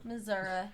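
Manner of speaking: "Missouri" the local way, with a final "uh"; local Missouri pronunciation. Shown as a demonstration. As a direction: say "Missouri" as "Mizzurah". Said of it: "Is that how they pronounce it".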